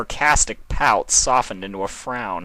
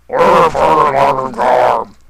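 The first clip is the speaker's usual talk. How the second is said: much higher, loud, slow yell; shouting; 6 semitones higher, 11 dB louder, much slower than usual. A narrator's reading. Sombra yells into Nightmare Moon's squished face. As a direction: bellow it right in her face.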